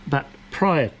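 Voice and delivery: breaking off on a hiccup; words cut by a hiccup. Real, not acted. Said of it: "oh, sorry, hiccups".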